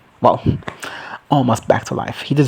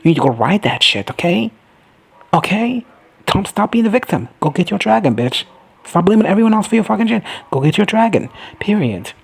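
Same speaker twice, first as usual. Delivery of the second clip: hyped yelling; 7 semitones higher than usual. Pretend. Vlogger cheering the character on to tame the dragon, excited yelling. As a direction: yell it like a hype friend. Urging Baela to claim a dragon.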